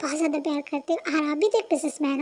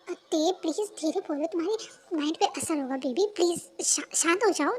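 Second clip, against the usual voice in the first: soothing; 4 dB quieter than usual. Acted. Calming the shouting girlfriend.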